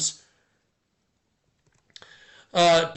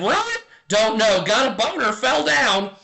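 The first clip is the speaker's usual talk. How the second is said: parrot voice; 3 semitones higher than usual. Acted.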